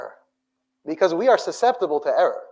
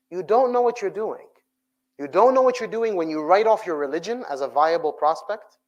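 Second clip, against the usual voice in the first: normal talking voice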